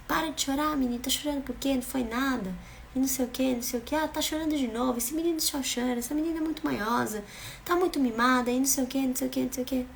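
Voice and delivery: mock the nagging parent who dismisses tears; dismissive parent. Parent dismissing child's crying. (imitação de pai ou mãe impaciente, voz mais aguda)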